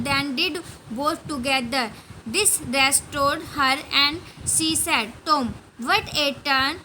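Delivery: slow, word-by-word English read-aloud; slow story reading. A narrator's reading. Teacher reading the Tom and Sid story to pupils, slow and deliberate. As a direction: read it out slowly, pausing between phrases.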